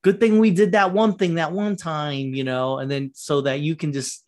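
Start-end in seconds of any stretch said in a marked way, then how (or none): 0.0-2.3 mock exposition line. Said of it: "exposition's a lot like".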